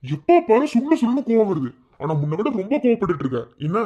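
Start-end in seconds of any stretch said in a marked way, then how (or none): 0.0-1.7 higher and louder, pleading to stop her; raised protest. Acted. Husband protesting to his angry wife on the phone, raised voice. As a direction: cut in hard to keep her on the line.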